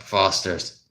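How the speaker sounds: lightly imitated Australian beer slogan; Australian commercial accent. Ad man slamming down a can of Foster's, light Australian accent. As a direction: say the tagline with an Australian lilt. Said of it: "out and be like".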